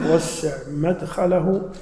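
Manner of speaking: مدخله said "madkhalahu", with a after the mim; slow reading, open first vowel in مدخله; fatha on the mim. Shown as a demonstration. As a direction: slowly say "madkhalahu", opening on "mad". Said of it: "أي وسع قبره".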